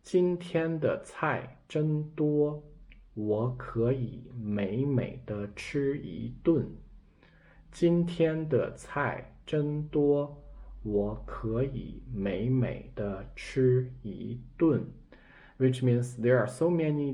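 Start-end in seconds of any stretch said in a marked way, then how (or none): 0.0-6.8 slow, savouring example sentence; slow example reading. Shown as a demonstration. Teacher reading an example sentence, slow and relishing. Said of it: "We can see this example". 7.7-14.9 slow, savouring example sentence; slow example reading. Shown as a demonstration. Teacher reading an example sentence, slow and relishing. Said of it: "We can see this example".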